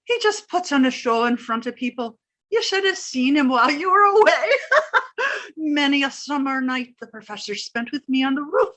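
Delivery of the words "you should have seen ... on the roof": laughing while talking. Acted. Landlady teasing the professor in front of the girls, laughing. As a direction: tease him while laughing.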